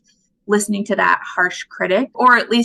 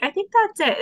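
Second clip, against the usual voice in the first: decided; 12 semitones higher than usual. Retold or imitated. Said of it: "And I was like".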